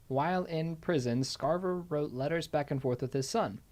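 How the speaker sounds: measured, scripted storytelling read; true-crime narration. Acted. Host tells co-host about Scarver's son, narrating. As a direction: read the biography out as prepared narration.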